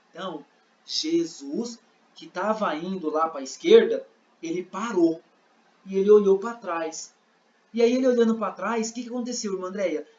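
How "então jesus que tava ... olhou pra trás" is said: measured, slightly lowered narration; lightly acted storyteller, in separated phrases; narrator. Narrator telling how Jesus stopped, measured delivery. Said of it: "E aí o narrador falou".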